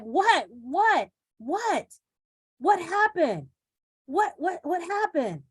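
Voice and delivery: alarmed what happened. Retold or imitated. Coach acting out finding a crying grandchild, alarmed. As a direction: ask in sudden worried alarm.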